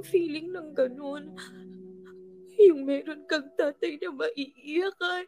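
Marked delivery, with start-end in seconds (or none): 2.6-5.3 crying. Acted. Drunk friend crying about father.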